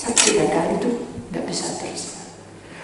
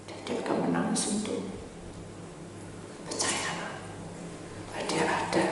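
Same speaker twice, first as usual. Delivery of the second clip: hushed; 12 dB quieter than usual. Real, not acted. Preacher drops to hushed assurance.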